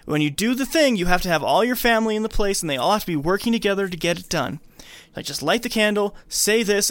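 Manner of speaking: hammed-up pushy helper; lightly voiced eager medium. Joan handing Annie the instructions, mock eager. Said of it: "Joan's like".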